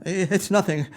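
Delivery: holding back tears. Acted. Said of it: "what is that on your cheek".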